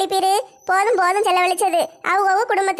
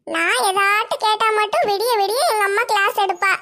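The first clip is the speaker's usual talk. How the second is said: put-on sulky child; 3 semitones higher than usual. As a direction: sulk like a kid complaining about mom. Child sulks about mother.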